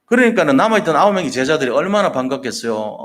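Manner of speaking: ordinary delivery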